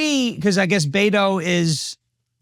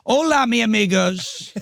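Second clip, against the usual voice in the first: Donald Trump; 2 semitones higher, slower than usual. Retold or imitated. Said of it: "If Donald Trump came out in the middle of a debate".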